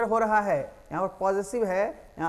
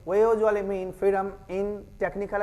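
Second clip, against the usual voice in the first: slow read; much slower than usual. Shown as a demonstration. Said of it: "reads textbook line slowly".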